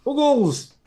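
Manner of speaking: high, loud drawn-out holler; big high whoop of a greeting; yelled catchphrase. Pretend. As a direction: call it out like a rallying cry.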